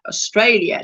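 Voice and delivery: "Australia" with the L sounded; L pronounced. Shown as a demonstration. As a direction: standard "Australia", ending in -lia. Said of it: "instead of".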